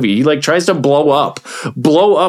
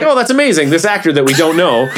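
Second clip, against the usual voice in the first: mock amazed crowd; 3 semitones higher than usual. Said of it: "they're just like".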